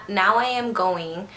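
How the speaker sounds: "Now I am going" with every word separate; "Now I am going" in full, "am" not contracted; careful full form. Shown as a demonstration. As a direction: say "Now I am going" slowly and fully, unslurred. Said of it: "Instead of saying".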